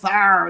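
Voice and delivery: short mock growl of annoyance; imitated angry bark. Friend retells Rick getting pissed off, mock angry bark. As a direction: bark it out like someone ticked off. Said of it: "he would get really pissed off".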